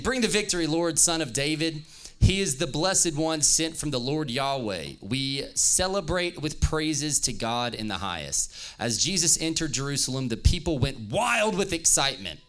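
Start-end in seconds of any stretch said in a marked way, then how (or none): 0.0-8.5 eager, raised praising voice; crowd praise. Acted. Preacher voicing the crowd praising Jesus. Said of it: "So they're saying".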